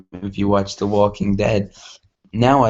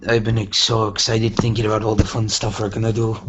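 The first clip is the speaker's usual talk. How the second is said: put-on quick full-on Irish accent; faster than usual. Pinkie gushing about fun plans in Irish accent. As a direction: rattle it off in broad Irish. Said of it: "Now it's just full on Irish".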